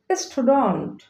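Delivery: "স্টুডেন্ট" as stu-dont, open vowel; correct pronunciation. Shown as a demonstration. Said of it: "correct pronunciation হবে". ("স্টুডেন্ট" শুদ্ধ স্টুডন্ট উচ্চারণ)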